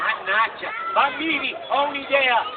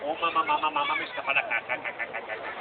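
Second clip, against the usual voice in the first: whiny fading puppet voice; 9 semitones lower, 5 dB quieter, faster than usual. Acted. Puppet whines low, fading.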